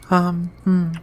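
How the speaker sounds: drowsy whispered murmur; half-awake, breathe it out; sleepy whisper. Acted. Groggy alien waking beside her human date, whispering drowsily. Just woke from a nap.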